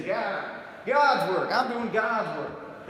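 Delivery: slow, drawn-out "God's" in a mock preacher twang; mock preacher accent on God. Imitating street preachers, "God's" twanged slowly. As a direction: lean hard on "God's" like a pulpit drawl. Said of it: "they usually say".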